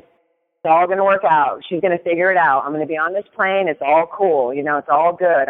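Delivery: low, easy self-reassurance; settled and unbothered, pitch sinking; calm mantra. Retold or imitated. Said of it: "the mantra I'm playing is".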